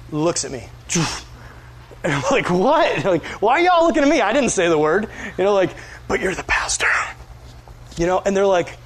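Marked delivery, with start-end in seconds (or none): 2.5-5.1 defensive, pitched up, a little fast; what, me? in a mock-defensive voice; mock innocent surprise. Retold moment, everyone staring at him. 6.1-6.9 hushed whisper to a friend; the friends whisper as they nudge him. Retold or imitated. Friends nudge him quietly about swearing.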